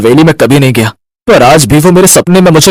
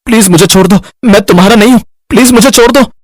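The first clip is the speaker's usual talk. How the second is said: nightmare moaning; 8 semitones higher, much faster than usual. Acted. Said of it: "कोई बुरा सपना देख रहा है".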